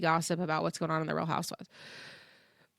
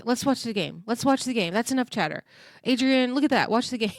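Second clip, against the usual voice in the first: impatient, louder mock scolding of Adrian; frustrated husband; 4 semitones higher, 3 dB louder than usual. Husband fed up with the chatter, mock irritated louder nagging. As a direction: snap at her to just watch the game. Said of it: "He is getting so frustrated".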